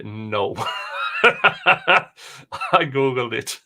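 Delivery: laughing out the admission; laughing confession. Real, not acted. Admitting she Googled the verse, laughing. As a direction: giggle it out. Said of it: "Did I recite that from memory".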